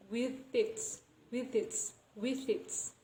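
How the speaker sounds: "with its" run together, th carried over; linked pronunciation. Shown as a demonstration. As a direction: let the th of "with" slide into "its". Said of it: "the pronunciation of its will be".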